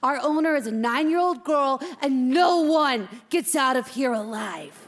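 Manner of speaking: a touch of incredulous scorn; hard-bitten inmate giving a reality check; tough veteran hamster, scornful. Acted. Old cellmate schooling naive rookie, scornful.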